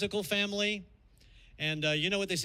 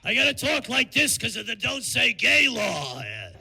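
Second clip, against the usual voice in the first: louder, slow, butched-up mouse voice; Mickey Rat; 3 semitones higher, 5 dB louder than usual. Pretend. Mickey Rat greeting kids, mock butch voice. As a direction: macho cartoon mouse, hammed up. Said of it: "Mickey Mouse would be Mickey Rat".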